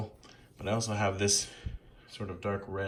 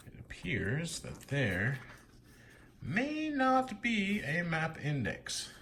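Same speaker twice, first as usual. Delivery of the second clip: slow whisper; 8 semitones higher, much slower than usual. Real, not acted.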